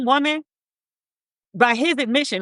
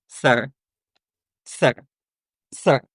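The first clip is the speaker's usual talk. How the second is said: incredulous sir; 9 semitones lower, much slower than usual. Real, not acted. Reacting to shocking quote.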